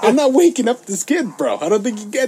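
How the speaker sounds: mock defiance to hotel. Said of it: "You're like".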